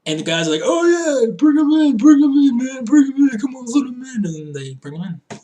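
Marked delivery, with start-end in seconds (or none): 0.6-4.2 high, loud, hammed-up eagerness; overeager attendant. Smitten garage attendant waving the car through, giddy and overexcited. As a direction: gush it in an excited put-on voice.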